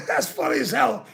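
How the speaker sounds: said through a real laugh, quick. Real, not acted. Repeating the line to the chat, laughing as he says it, quick. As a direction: laugh it out as you say it.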